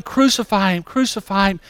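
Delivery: high mock yell at moderate volume; restrained high-pitched yell; imitated yelling. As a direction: mimic a crowd member yelling, pitched high. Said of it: "You're yelling".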